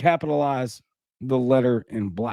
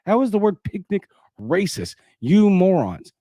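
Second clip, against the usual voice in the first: raised, slow, scornful reading of the meme; mocking meme voice; 5 semitones higher than usual. Host reading his own meme title aloud, mocking and exasperated. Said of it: "meme that I made entitled".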